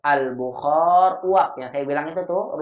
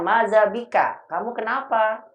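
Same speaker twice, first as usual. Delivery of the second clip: concerned asking; 7 semitones higher than usual. Acted. Teacher voicing someone asking a sick student, concerned. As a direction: ask gently what is wrong.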